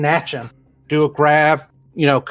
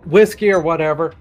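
put-on drunk slurring; 6 semitones higher than usual. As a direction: slur it like a drunk bum. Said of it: "slurring out my words".

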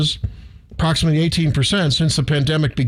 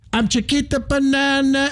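mock jingle; 9 semitones higher than usual. Jokey mascot jingle voice.

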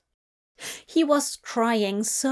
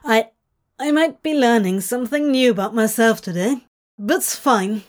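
squeaky; 5 dB louder, faster than usual. Acted. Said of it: "he squeaked".

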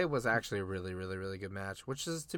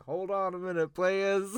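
high, louder mock announcer drawl; cheerful imitation of the wrestling GM stepping in; Teddy Long impression; 9 semitones higher, 6 dB louder than usual. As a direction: stretch it out like a GM halting the show. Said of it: "And he's like".

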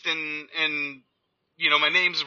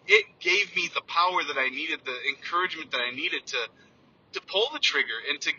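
emotional; 3 dB quieter than usual. Real, not acted. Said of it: "it gets me emotional".

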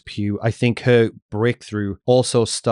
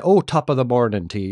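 hammed-up stage Irish; mock Irish lilt, over-egged; overdone Irish accent. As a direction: lay the Irish accent on too thick. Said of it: "when people do Irish accents".

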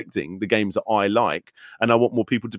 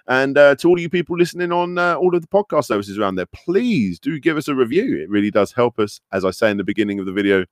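phone voice. Acted. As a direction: read it like a customer service phone line. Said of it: "put my, uh, my phone voice on when I do the promo bits".

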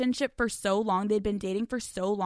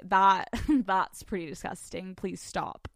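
slow, grossed-out drawl; mock disgust; 3 semitones lower, slower than usual. Host mimicking her old self rejecting romance, disgusted. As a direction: recoil from the romance. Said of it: "me usually being like".

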